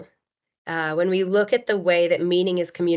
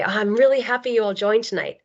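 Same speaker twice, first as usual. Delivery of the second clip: higher, warmer and more tuneful read; 1 warm intonation; 4 semitones higher than usual. Shown as a demonstration. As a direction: lift the tune to sound truly glad. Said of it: "you get a totally different feeling".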